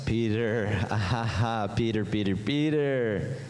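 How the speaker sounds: mock chuckle, drawn-out name; Jesus. Jesus answers naive disciple, chuckling indulgently. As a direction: indulgent put-on laugh between repeats of the name.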